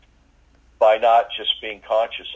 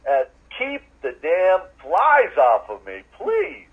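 louder, higher angry prayer to God; angry plea; 4 semitones higher, 3 dB louder than usual. Retold or imitated. To God over the swarming flies, angry pleading. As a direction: let the frustration break through, then beg. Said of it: "I was saying it with anger".

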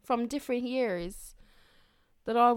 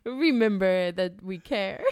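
Christopher Walken; 4 semitones lower than usual. Retold or imitated. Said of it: "Is this Christopher Walken still?".

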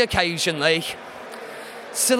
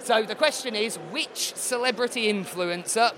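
losing voice; 5 dB quieter than usual. Real, not acted. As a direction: read it with a fading voice. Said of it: "I'm losing my voice a little bit".

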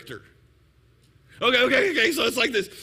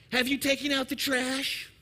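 lightly voiced wife, a little raised in pitch; wife's question; 3 semitones higher than usual. Wife asks husband watching the ball game, mild nagging question. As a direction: ask it as a wife checking on a chore. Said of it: "Your wife tells you".

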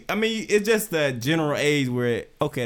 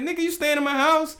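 granddad scolding; 11 semitones higher than usual. Retold or imitated. Granddad scolding the grandson who talks back, high mock rant. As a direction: bark it like a fed-up grandfather.

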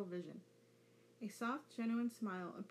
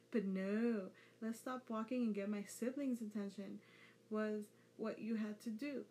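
ranting. Acted. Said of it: "Naruto ranted".

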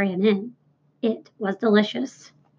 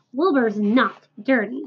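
proudly. Acted. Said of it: "said Mister Zuckerman proudly".

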